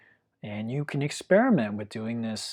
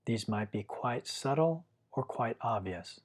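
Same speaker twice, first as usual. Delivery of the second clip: calm, unhurried meditation guiding with long pauses; guided meditation. Real, not acted. Teacher guiding listeners to feel their breath, calm guided meditation. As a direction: gently lead the listener through following the breath, leaving long silences.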